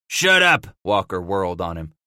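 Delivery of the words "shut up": high loud shut-up; angry snap. A narrator's reading. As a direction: cut him off sharply. Walker snaps at trapper.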